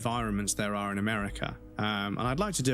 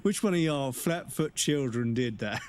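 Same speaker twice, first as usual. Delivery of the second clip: imitated quote; 4 semitones higher than usual. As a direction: draw out the mock scolding question. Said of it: "But it reminds me of".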